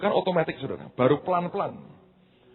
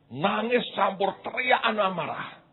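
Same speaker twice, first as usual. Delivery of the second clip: retold angry crying; 7 semitones higher than usual. Vivid retelling of crying angry child.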